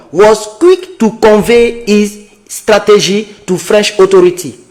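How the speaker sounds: slow, careful reading of English text; slow English read-aloud. Real, not acted. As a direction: read each English word out slowly. Reads English article aloud slowly.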